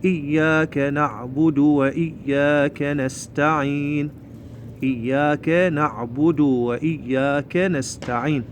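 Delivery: slow, measured Quran recitation; steady, careful model reading; whole-verse recitation. Shown as a demonstration. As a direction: recite with drawn-out vowels. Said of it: "خلينا نقرأها كلها آية واحدة".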